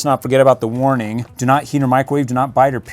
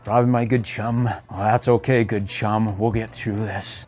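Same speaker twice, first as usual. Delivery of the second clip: Batman voice; 3 semitones lower than usual. Retold or imitated. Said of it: "he goes".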